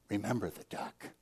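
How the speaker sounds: soft, low blackmail; quiet threat. Retold or imitated. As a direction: murmur it as a sly warning. Sister blackmailing brother quietly.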